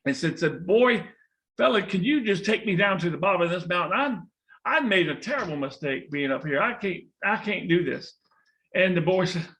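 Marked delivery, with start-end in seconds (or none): 0.7-8.1 mildly pleading snake, raised at first; snake calling out. Acted. Stranded snake calls out to the boy for help, mild plea. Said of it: "the snake calls out to the boy".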